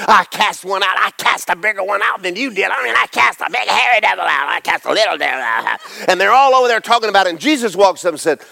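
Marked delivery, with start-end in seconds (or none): 0.1-5.8 high, excited retelling of a miracle; excited disciple. Retold or imitated. Disciple bragging to friends, higher and excited. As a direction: gush like a thrilled disciple. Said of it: "all their devil experiences".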